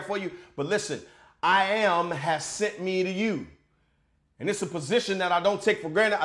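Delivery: loving pastoral. Real, not acted. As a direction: speak tenderly to your flock. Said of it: "I wanna take a loving pastoral moment".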